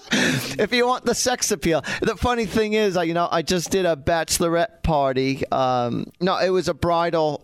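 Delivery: chatty storytelling in a put-on English accent. Shown as a demonstration. Host telling a bachelorette party story in an English accent. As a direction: keep up a light British accent. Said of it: "when I start talking like this".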